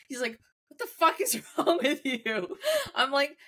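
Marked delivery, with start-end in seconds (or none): 0.7-2.6 high, drawn-out mock outrage, breaking into a laugh; mock angry. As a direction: imitate someone scolding in disbelief, half laughing. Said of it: "he got so mad at me".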